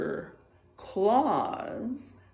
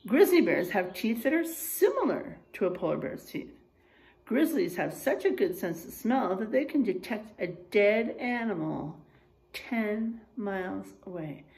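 put-on reading to children. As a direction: clear storybook reading for a class. Reads picture book aloud to class.

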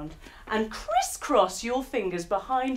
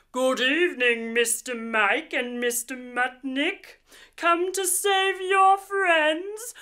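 villain mudfish; 3 dB louder than usual. Acted. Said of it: "He says".

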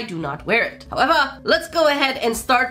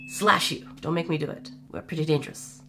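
mock menace; 6 semitones lower, 7 dB quieter than usual. Joking with viewers who won't subscribe, soft mock menace. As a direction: drop to a soft, playful threat.

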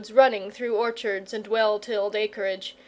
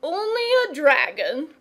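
higher, incredulous exclamation; indignant cry; 6 semitones higher, 4 dB louder than usual. A narrator's reading. Father to his unworried son, indignant cry. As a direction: throw the words back in disbelief. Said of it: "cried his father".

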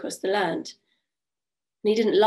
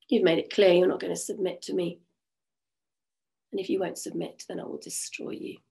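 menacing king. Acted. King threatens to destroy her.

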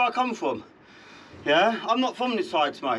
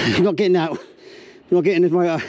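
louder, furious refusal; angry shout; 3 semitones lower, 7 dB louder than usual. Real, not acted. Owner refusing to hand over his car to bailiffs, angry shout. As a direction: yell it at the bailiff.

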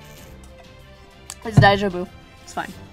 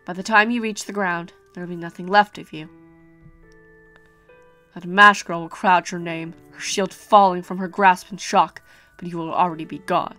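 calm ominous prophecy; 2 semitones lower than usual. Acted.

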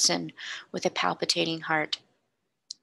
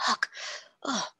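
short, hushed "ugh" of disgust; exclaimed "ugh"; 5 semitones higher, 4 dB quieter than usual. A narrator's reading. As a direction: recoil with a soft, higher ugh. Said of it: "exclaimed the young man".

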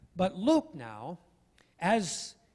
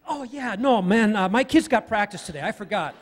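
hasty excuse; 2 semitones higher, 6 dB louder than usual. Retold or imitated. Acted excuse to dodge moving.

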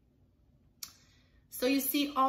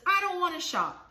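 put-on whiny kid; 8 semitones higher, 5 dB louder than usual. Kids whining at the grocery store.

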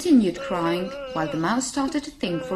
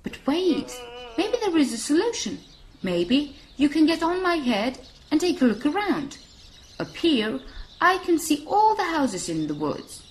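encouraging, higher-pitched giraffe; lightly voiced helpful giraffe; 5 semitones higher than usual. Giraffe offering the lost mouse a lookout, encouraging. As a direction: offer a bright idea, lightly in character.

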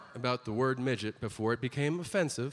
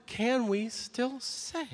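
high, slow whiny pleading; mock a baffled audience member; 10 semitones higher, slower than usual. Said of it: "sitting in your seat now going like".

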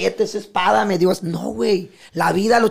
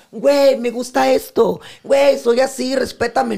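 mock shout; 4 semitones higher, 5 dB louder than usual. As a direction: ham up a loud demand for respect. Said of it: "no ocupas gritar".

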